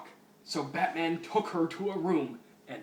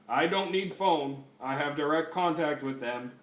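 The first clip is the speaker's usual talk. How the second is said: deliberate, lightly voiced robot cop; a hint of stiff machine speech; RoboCop; 4 dB louder than usual. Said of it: "That's the worst fucking RoboCop voice ever".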